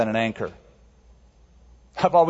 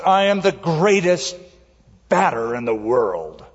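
great confidence. Retold or imitated. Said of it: "announced again with great confidence".

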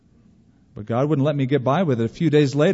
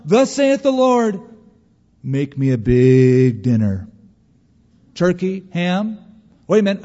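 mock biblical prophet; 3 semitones higher, 5 dB louder than usual. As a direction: ham up a false prophet's vision. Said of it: "and you can just see it".

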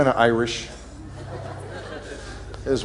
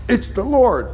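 excited recognition; 12 semitones higher, 4 dB louder, slower than usual. Acted. Disciple recognizes Jesus.

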